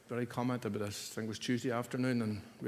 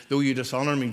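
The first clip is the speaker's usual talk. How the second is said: loud, ringing declaration; forceful Jesus voice; 2 semitones higher, 9 dB louder, faster than usual. Acted. Preacher voicing Jesus answering his accusers, loud and firm. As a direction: proclaim it with full force.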